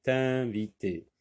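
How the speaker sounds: "invités" begun with a linking t, tin-vi-tés; carefully separated "invités", said as tin... vités; liaison demonstrated. Shown as a demonstration. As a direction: sound the t liaison at the start of "invités". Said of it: "La liaison".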